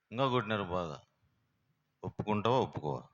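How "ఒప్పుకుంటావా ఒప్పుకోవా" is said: threatening demand. Retold or imitated. Police threatening the thief.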